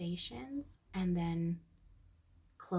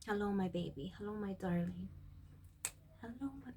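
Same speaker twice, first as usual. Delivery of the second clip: tender greeting; 6 dB quieter than usual. Retold or imitated. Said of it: "you open your heart and you're like".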